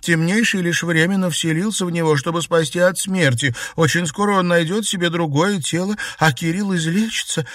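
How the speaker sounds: high, passionate defence of Кирилл; heated protest. A narrator's reading. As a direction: insist fervently he will live. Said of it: "горячо запротестовала Наташа".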